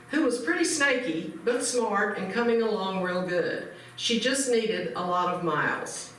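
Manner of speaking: measured cowboy storytelling read; even-paced narration, pausing between phrases; letter read aloud. Acted.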